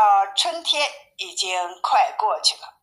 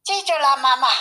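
high-pitched little cub reply; storybook cub voice, pitched up; bear cub; 6 semitones higher, faster than usual. A narrator's reading. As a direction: answer mother like an eager pupil. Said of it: "大毛说".

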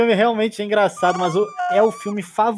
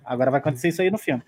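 mock fan; 3 semitones lower, faster than usual. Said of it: "aí ficava".

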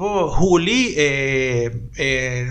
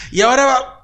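imitating a commentator choking on saliva mid-call, louder and higher; swallowed wrong way; 6 semitones higher, 5 dB louder than usual. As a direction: voice catching as spit goes down wrong. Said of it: "se me atoró la saliva ahí".

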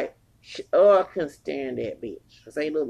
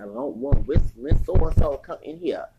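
retold firm protest; 7 dB louder than usual. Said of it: "And I said".

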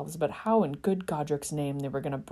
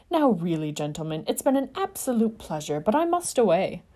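higher, louder prim objection; vociferous prissy protest; 3 semitones higher, 4 dB louder than usual. Acted. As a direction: argue like an offended toff. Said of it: "arguing more vociferously".

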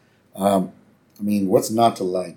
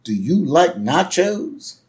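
slow, higher-pitched friendly neighbor impression; drawn-out chummy question, pitched up; Gerald Ford; 7 semitones higher, much slower than usual. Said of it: "And, uh, Jerry goes".

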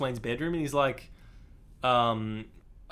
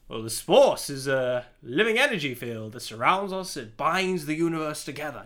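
Alec Guinness; 3 dB louder than usual. Retold or imitated. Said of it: "but if Alec Guinness says".

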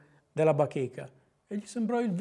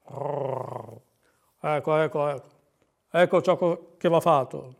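lightly voiced owl, repeating himself; a hint of a lower, halting owl voice; pompous owl; 4 semitones lower than usual. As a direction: mumble and repeat like a fussy owl. Voices Gufo thinking.

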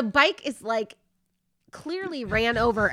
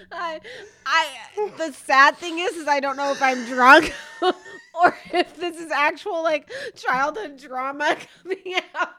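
cry-laughing, louder; 5 semitones higher, 4 dB louder than usual. Real, not acted. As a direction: laugh through tears. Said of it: "I'm crying".

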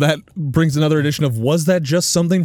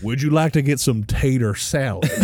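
Ron White. Retold or imitated. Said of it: "I'm just picturing Ron White".

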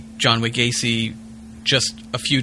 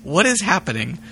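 bewildered; 5 semitones higher than usual. Real, not acted. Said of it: "The speaker's catchphrase".

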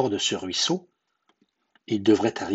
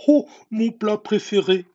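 loud, high-pitched monster exclamation; growling gruffalo; 11 semitones higher, 4 dB louder than usual. A narrator's reading. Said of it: "grogna le gruffalo".

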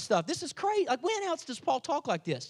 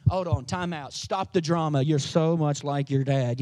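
exasperated parent; 10 semitones lower than usual. Retold or imitated. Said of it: "you'd be like".

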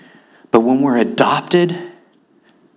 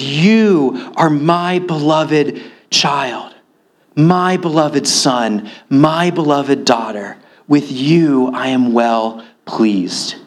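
slow, gentle blessing; tender father; slower than usual. Acted. Father telling his child he delights in them, slow and tender. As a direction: speak it slowly like a loving father. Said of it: "the Father looks at you and says".

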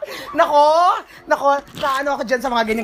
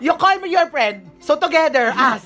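mock friend insisting; 5 semitones higher than usual. Friend's line quoted to the man.

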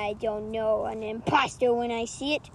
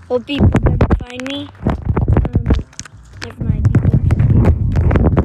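mystery voice; 12 dB louder than usual. Acted. Mysterious voice cameo.

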